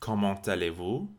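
Comment allez-vous, said very slowly; a carefully spelled-out French greeting; slow model phrase. Shown as a demonstration.

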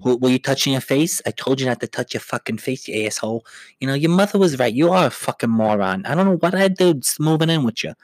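a lightly voiced Long Island accent, nagging; mock Long Island spouse scolding with a Long Island accent; Long Islander impression. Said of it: "that's what I imagine just all Long Islanders sound like".

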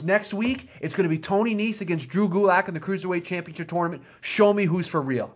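retold wrestling promo. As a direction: announce the match like a promo retold. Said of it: "the most real promo ever".

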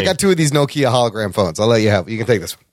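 lightly voiced femme fatale offering a phone; a hint of a seductive villain; mock Sharon Stone. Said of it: "she's like".

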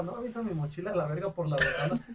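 cita contada entre risas; riendo. Retold or imitated. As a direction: suelta la orden riéndose de la travesura. Retold order to a friend, laughing. (le pide al compa que avienta la mochila, riéndose)

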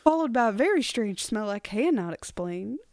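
mock Southern Belle accent. Co-host finishing the haunted-lady story, Southern Belle accent. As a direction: play along as a Southern Belle. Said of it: "Southern Belle".

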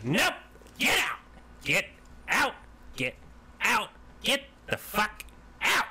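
tiny furious woman yelling at a guard; yelling get out. Acted. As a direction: throw the guard out at full volume.

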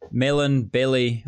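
"melon" and "belly" said slowly; accented vowels. Shown as a demonstration. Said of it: "I say it a little bit differently".

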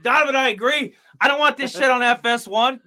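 loud, hyped-up wrestling promo rant. Pretend. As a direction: cut a promo like a pro wrestler. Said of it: "I feel like I'm cutting a promo right now".

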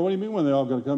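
retold comeback in a matter-of-fact voice; questioning reply. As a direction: echo his question back, plainly puzzled. Own puzzled reply, retold lower.

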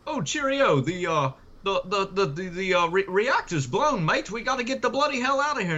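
cartoonish British accent, pitched high; mock British accent. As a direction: play a comic British bloke. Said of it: "it's all British actors".

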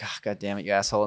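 muted mock annoyance, well under the breath; annoyed. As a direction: imitate someone cursing to himself, softly and low. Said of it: "he was just annoyed".

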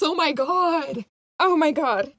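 excited. Real, not acted. Fans thrilled at movie news.

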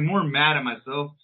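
normal talking voice

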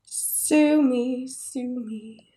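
fading stage whisper, trailing off. Pretend. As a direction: whisper it, dying away to nothing. Echoes co-host's joke, fading.

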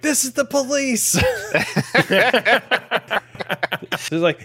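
high, sing-out fake police announcement; hammed-up, high police voice; mock police call. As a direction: call out from outside as pretend police. Imitating someone outside claiming police.

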